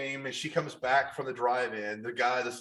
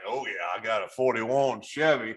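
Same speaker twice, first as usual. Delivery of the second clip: Southern hot rod guy; 6 dB louder than usual. Acted. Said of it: "trying to get into character".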